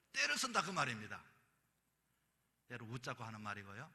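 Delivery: usual speaking voice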